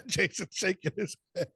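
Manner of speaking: cracked up at own joke; laughing. Real, not acted. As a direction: laugh while getting the words out. Laughing after own punchline.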